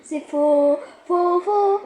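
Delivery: repeating like a glitching machine; stuck-loop robot chant. Pretend. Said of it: "le robot".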